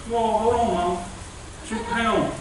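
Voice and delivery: put-on a child realising the fun isn't over; dismayed little girl. Cindy protesting to her mom about going back, high and alarmed.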